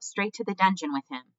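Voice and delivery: high-pitched demand from the crowd; crying out. A narrator's reading. Mouse in the crowd condemning Despereaux, crying out. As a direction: call out the sentence. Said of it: "a voice cried out".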